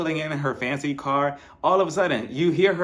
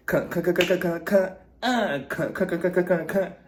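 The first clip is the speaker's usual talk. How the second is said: mock choreographer; 4 semitones higher than usual. Mock choreographer calling dance counts.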